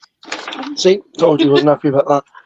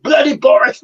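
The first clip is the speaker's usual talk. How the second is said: put-on British accent; 8 semitones higher, 6 dB louder than usual. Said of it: "Or a very British accent".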